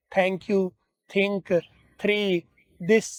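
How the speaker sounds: "thank you, think, three" with the tongue pressed up against the palate; "this" with a hard d, the tongue touching the roof of the mouth; wrong way, with the tongue against the palate. Shown as a demonstration. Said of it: "जुबान को तालु के साथ लगाते हैं".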